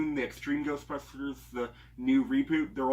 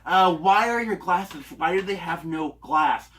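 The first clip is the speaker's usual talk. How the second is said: slow, higher dopey Thor impression; Chris Hemsworth voice; 4 semitones higher, 7 dB louder, slower than usual. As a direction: play it like a lovable himbo. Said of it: "That's my attempt at Chris Hemsworth voice".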